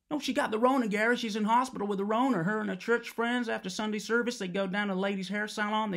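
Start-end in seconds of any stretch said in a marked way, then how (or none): 0.1-2.4 raised ranting voice. Acted. Ranting down the phone at Gary.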